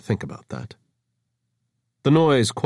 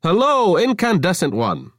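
flirtatious greeting; 10 semitones higher, 5 dB louder than usual. Acted. Avra greeting Taveri.

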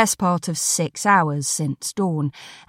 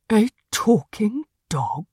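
slow, whispery cat voice; incredulous talking cat; 3 semitones higher than usual. Acted. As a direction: scoff slowly in disbelief as a cat. Cat scoffs once woman has gone.

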